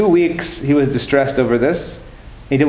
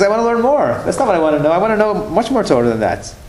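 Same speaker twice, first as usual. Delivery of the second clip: higher-pitched, insistent retold plea; insistent student; 5 semitones higher than usual. Crying student tells his teacher he wants more, insistent. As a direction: imitate an eager student pressing for more.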